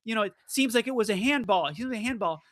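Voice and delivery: a hint of an excited reporter calling out; pushy reporter. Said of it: "he is asked after the match".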